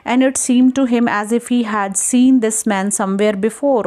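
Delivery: slow, deliberate reading of the English text; story reading. Acted. Teacher reading the story text aloud to students, slowly. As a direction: read the line out slowly for the class.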